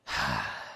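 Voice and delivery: a low defeated exhale; weary sigh. Acted. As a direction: let it all go in one sigh. Tired after rambling too much.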